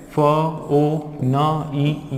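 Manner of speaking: फ, ओ, न, ई as separate sounds; letter-by-letter reading. Shown as a demonstration. Teacher shows learners a common spelling mistake, letter-by-letter. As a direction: split it up as फ... ओ... न... ई. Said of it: "बहुत सारे लोग जो है उसको क्या करते हैं".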